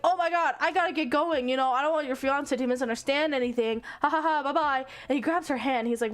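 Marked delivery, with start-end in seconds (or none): 0.1-4.8 flustered heroine. Retold or imitated. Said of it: "she's like".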